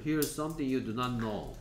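very slow, even and careful; slow read-aloud. Shown as a demonstration. Teacher repeating the textbook line slowly for students. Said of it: "teacher reads sentence aloud".

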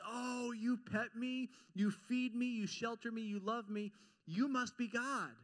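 a dog humbly amazed at its master; grateful dog. Retold or imitated. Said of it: "a dog looks at you and says".

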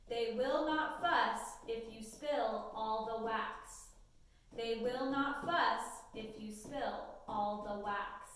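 slow, clear dictation read to students. Acted. Teacher dictating a sentence to students, slow and clear. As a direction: read each word slowly so they can write it.

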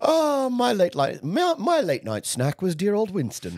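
camp diva with cackles; lightly voiced camp auntie; campy drag queen. Camp laughing reminiscence.

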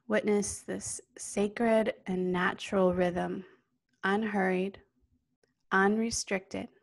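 calm yoga nidra guidance, spacious and steady; guided meditation. Real, not acted. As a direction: guide them gently into stillness, unhurried.

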